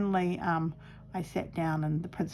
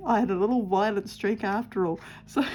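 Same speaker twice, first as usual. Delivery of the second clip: laughing; 3 semitones higher, 3 dB louder than usual. Real, not acted. Laughing over her childhood story.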